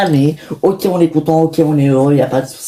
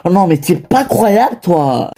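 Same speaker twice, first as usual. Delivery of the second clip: 1 sarcastic reproach; 4 semitones higher than usual. Acted. Mother mocks father's method.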